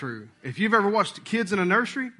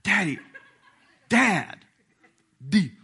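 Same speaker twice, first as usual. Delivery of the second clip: quick mock-whispered daddy, trying to beat mom; playful dad coaxing baby, laughing; sneaky coaxing; slower than usual. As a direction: coax the baby behind her back, playful.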